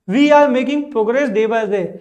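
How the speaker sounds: every word drawn out, very slow; very slow dictation. Shown as a demonstration. Teacher dictating an example sentence to students, very slow. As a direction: spell it out slowly for learners.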